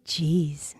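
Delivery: breathy annoyed whisper; exasperated whispered jeez. Acted. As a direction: whisper it under your breath. Annoyed aside.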